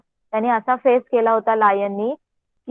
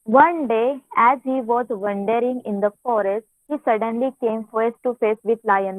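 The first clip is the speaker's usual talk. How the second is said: reading the story aloud very slowly, word by word; much slower than usual. Acted. Teacher reads the English story to her class in a slow reading voice. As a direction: read each phrase out slowly so the pupils can follow.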